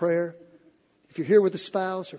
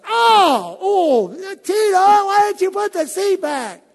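high, loud, strained whine, slowed; whining at his wife from the cramped seat; pained cry of a man jammed in a tiny car; exasperated husband; 13 semitones higher, 11 dB louder, much slower than usual. Retold or imitated. Frustrated husband stuck in car seat.

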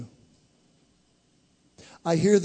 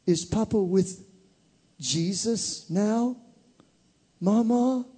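put-on child asking; 6 semitones higher, slower than usual. Child voice asks grandmother.

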